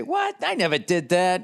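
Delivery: high, mocking denial; mock the abuser brushing it off; dismissive gaslighter. Mocking an abuser denying it to his partner. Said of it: "what do they always say".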